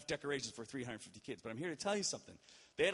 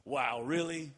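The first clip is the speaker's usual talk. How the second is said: louder mock disbelief on Wow, really; incredulous wow; 5 dB louder, slower than usual. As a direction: throw her astonishment back at him. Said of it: "That's how she said it".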